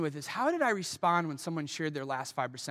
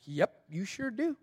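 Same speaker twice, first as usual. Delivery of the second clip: smug agreement; 3 semitones higher, slower than usual. Retold or imitated. Smug reply to the mentor.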